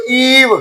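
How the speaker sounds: ईव with a long "ee" and silent final e. Shown as a demonstration. Teacher showing the silent-e rule, ईव said with long ee. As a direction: stretch the ee in ईव. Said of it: "इसकी long sound बन जाएगी".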